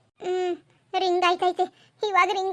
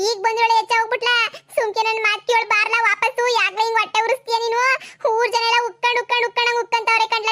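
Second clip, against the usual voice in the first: high-pitched aggrieved tirade; mother's wailing reproach; anguished scolding; 4 semitones higher than usual. Acted. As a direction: berate the disobedient child in distress. Mother scolds son who refuses.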